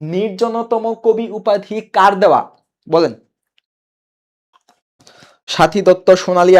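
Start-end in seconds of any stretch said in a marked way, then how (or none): 0.0-2.5 slow question leaning on কার; deliberate pace, কার set apart and emphasised; stress on কার. Shown as a demonstration. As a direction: spell out the question slowly, marking কার. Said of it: "Not কে".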